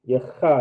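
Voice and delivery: "cha" with a scraping throat sound; "cha" scratched from the back of the throat; throaty cha. Shown as a demonstration. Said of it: "get that coughing sound".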